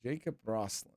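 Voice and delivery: a light mock Russian accent. Reading the player's name in a mock Russian accent. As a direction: play at a Russian accent, half-joking. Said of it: "I'm talking in a Russian accent".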